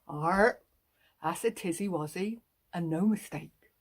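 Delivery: a light West Country burr, round and jolly; playful rural farmer voice; country farmer accent. Pretend. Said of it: "And he says things like".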